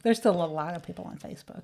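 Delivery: whispered insistence. Acted. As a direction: repeat it as a soft whisper. Whispered repeat.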